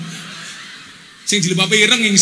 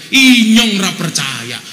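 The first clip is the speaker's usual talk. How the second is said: Ngapak shout. Retold or imitated. Ngapak man shouting his disbelief at the Sundanese man. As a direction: bellow it in thick Banyumasan dialect. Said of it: "Orang Ngapak langsung teriak".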